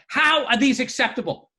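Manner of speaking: indignant, exaggerated complaint; mock meltdown. Husband rants to wife about instructions, mock meltdown. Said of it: "like, a meltdown".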